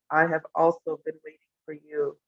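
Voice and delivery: understated gravity, a little hushed; grave and serious. Retold or imitated. Guru answering the newcomer he looked at, quietly grave. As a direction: lightly imitate a solemn teacher. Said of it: "Gurudev got very grave and serious".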